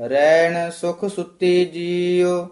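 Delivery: flowing chant with held ending; scripture recitation. Shown as a demonstration. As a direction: carry the line through to ਜੀਉ. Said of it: "ਉਸ ਤੋਂ ਪਹਿਲਾਂ ਥੋੜਾ ਜਿਹਾ ਠਹਿਰਾ". (ਹੇਕ ਨਾਲ ਪਾਠ)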